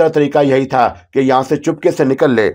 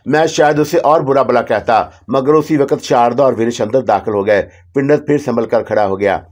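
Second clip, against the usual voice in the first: ordinary delivery, nothing marked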